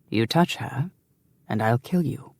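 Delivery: softened, serious threat; deadly earnest. A narrator's reading. Stephen warns Hugh off his wife, deadly earnest. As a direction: threaten quietly and mean it. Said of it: "he said in deadly earnest".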